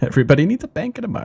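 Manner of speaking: very high, showy prize-show announcer voice. Commenting on how the cities are looking during a turn, in an Oprah voice. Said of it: "Oprah voice".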